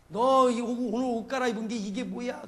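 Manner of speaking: acted mother telling a child off; mock scolding. Mother at the tap over dirty clothes, mock scolding. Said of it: "그러면서 막 야단을 치잖아요".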